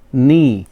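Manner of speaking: नी said as "nee", no k sound; silent k. Shown as a demonstration. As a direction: say नी without the K. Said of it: "के silent रहता है". (सामने K के बिना, सिर्फ़ "नी")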